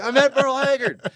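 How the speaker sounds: high, loud excited shout; thrilled announcement. Retold or imitated. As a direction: proclaim it to stunned parents. Reenacts announcing the news to parents.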